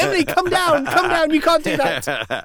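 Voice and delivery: high, loud call to come down; alarmed call. Retold or imitated. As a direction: shout to stop her climbing up. Dad calling toddler off climb.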